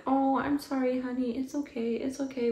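high, sugary mocking of a soothing mother; mock sweet mom. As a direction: parody a syrupy mom comforting her kid on camera. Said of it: "And she's like".

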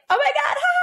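high, laughing exclamation. Retold or imitated. Student laughing with relief at her breakthrough. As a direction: laugh it out in delight. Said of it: "it was like".

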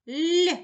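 Л said high and loud on its own; isolated sound. Shown as a demonstration. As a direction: sound out the letter Л clearly. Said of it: "Який ми чуємо перший звук?".

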